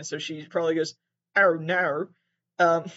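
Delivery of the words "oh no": mock Australian accent. Australian contestant reacting to a phone call, mock Australian accent. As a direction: put on a rough Australian accent. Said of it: "that's my Australian voice".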